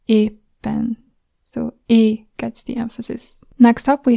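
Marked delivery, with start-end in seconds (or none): 0.1-1.0 "éppen" with the É pressed stronger; first syllable stressed. Shown as a demonstration. Teacher showing Hungarian first-syllable stress. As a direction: hit the first vowel of "éppen". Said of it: "you press the first vowel".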